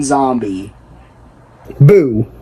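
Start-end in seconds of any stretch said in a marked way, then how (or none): 1.8-2.3 sudden loud boo to scare; startling boo. Pretend. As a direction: jump out and shout boo. Sudden jump scare at viewer.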